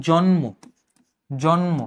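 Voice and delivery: জন্ম as "jon-mo", the m fully sounded; unaltered m sound. Shown as a demonstration. Teacher giving an example of the rule, unaltered m. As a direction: keep a clear m after the n in জন্ম. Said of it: "ময়ের উচ্চারণটা অবিকৃত".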